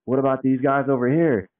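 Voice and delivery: a showy host talking to his phone camera; live video host. Retold or imitated. Filming live at the trade show, hyped host voice. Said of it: "I'm like".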